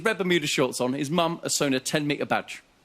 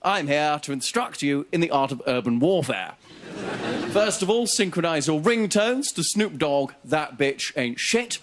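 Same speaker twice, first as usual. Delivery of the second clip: army major. Retold or imitated. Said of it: "an army major in an inner city school going".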